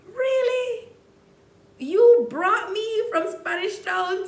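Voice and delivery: hurt outraged rant. Retold or imitated. Betrayed friend confronting Larry at the party, high hurt outrage. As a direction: fling it at him, wounded and incredulous.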